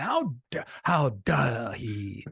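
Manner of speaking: sputtering mock indignation, drawn out; hammed-up scandalized stammer; mock outrage. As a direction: drag it out, affronted. Acts out outraged party critics.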